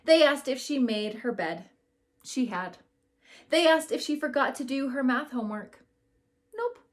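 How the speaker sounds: put-on lively read-aloud voice for a class of kids; story narration. A narrator's reading. Teacher reading a picture book to her class, lively storytelling.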